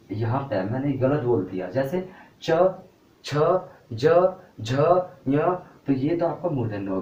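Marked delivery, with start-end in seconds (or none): 1.7-5.4 च, छ, ज, झ, ञ said slowly and distinctly, each one apart; slow clear letter-by-letter sounding of च छ ज झ ञ; palatal sounds demo. Shown as a demonstration. Teacher to class, demonstrating च छ ज झ ञ one by one. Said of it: "तब वहाँ से ये ध्वनि बनेगी".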